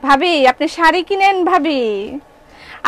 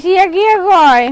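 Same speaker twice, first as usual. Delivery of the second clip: higher, louder mock babble; mocking gibberish; 4 semitones higher, 4 dB louder than usual. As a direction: parrot nonsense back in a teasing tone. Mocking a confusing customer.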